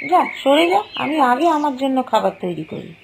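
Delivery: sharp, pushy order; bossy. Acted. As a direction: shove her aside with words. Kitchen quarrel.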